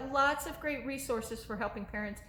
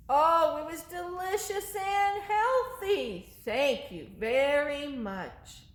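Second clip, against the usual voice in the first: higher, slow sweet little monster voice; monster puppet voice; 4 semitones higher, slower than usual. Acted. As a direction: answer as the polite little monster. Monster answers.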